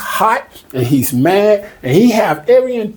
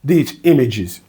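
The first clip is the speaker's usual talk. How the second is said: slow angry Laban; slower than usual. Retold or imitated. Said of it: "Laban's just gonna say".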